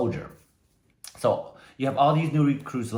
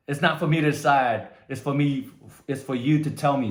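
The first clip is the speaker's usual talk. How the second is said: louder shouted answer; recruit shouting; 4 semitones higher, 4 dB louder than usual. Retold or imitated. Recruit shouts his reply to the sergeant. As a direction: call it out at attention.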